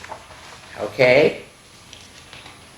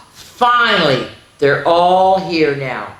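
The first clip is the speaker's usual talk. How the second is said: mock relieved surprise; 2 semitones lower, 3 dB louder, slower than usual. Gasp as all dots appear.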